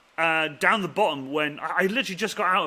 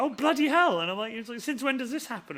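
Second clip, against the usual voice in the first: shocked mate; 7 semitones higher than usual. Retold or imitated. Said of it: "he was just looking at me like".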